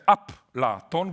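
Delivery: up la ton with an added vowel before pl; Hebrew prosthetic vowel. Shown as a demonstration. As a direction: say up la ton, breaking the cluster. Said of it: "we cannot say Platon in Hebrew".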